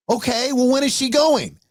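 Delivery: high-pitched, dragged-out mock slur; slurring mother. Mother answering her son on the phone, slurring. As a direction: imitate a woozy mother, pitched well up. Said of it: "She's slurring her speech".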